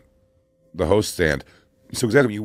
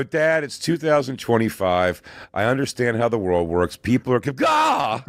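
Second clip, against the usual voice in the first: son lecturing his dad, then spluttering; mock teen; 3 semitones higher, slower than usual. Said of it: "They, they go".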